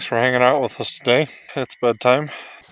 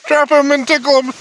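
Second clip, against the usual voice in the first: much higher silly sing-song; playful tickle voice; 5 dB louder than usual. Real, not acted. Dad tickling his son in the morning, high silly voice.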